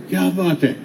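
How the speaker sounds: understated resentful کیا بات ہے; a hint of a sneer, picking a fight; mild angry sarcasm. Shown as a demonstration. Preacher showing the same words said in anger, mildly sarcastic. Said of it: "غصے کی نظر سے دیکھ کہتے ہیں".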